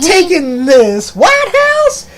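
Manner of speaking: exaggerated African-American accent impression. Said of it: "put on the African-American accent".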